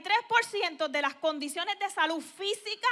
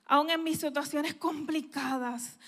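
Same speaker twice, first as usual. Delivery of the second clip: worshipful prayer; 2 semitones lower than usual. Retold or imitated.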